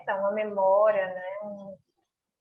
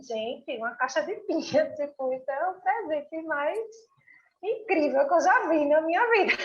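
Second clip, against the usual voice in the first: amazed; 5 semitones higher than usual. Retold or imitated. Quoting their own amazed reaction.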